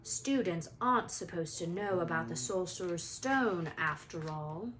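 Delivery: a hint of a menacing Snape; icy. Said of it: "his voice icy".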